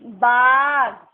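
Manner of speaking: बाग stretched out very slowly and loudly, the आ held long; slow sounded-out word. Shown as a demonstration. Teacher blending बा and ग into बाग for pupils, very slow. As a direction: draw बाग out for the class to hear each sound. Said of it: "तो क्या हो गया हमारा?".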